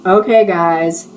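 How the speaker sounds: slow, tired sighed words; weary sigh. Acted. Owner calming her gossiping staff, slow weary sigh. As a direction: let the air out, done with them. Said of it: "I sighed".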